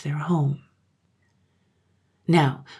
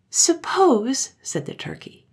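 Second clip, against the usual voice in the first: put-on high, raised child voice; childlike, higher-pitched proposal; child plotting; 7 semitones higher, 4 dB louder than usual. A narrator's reading. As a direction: suggest it like a scheming little girl. Turkey, a child, suggests a plan.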